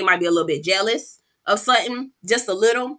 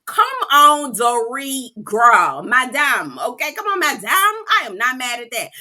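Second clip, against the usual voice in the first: loud laughing cheer, pitched up; giddy cheering through laughter; hyped cheering; 3 semitones higher, 5 dB louder, slower than usual. Retold or imitated. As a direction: cheer her on like your team just scored. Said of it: "bitch, I went up".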